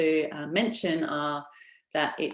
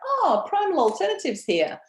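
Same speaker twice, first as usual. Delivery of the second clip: excited customer; 10 semitones higher, 4 dB louder than usual. Retold or imitated. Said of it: "customers say things like".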